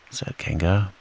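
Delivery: ordinary delivery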